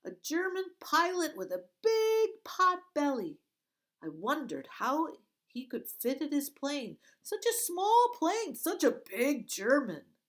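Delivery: high, loud, bright-eyed question; eager girl. Acted. Girl distracts the guard, eagerly high and loud. Girl mocking fat pilot.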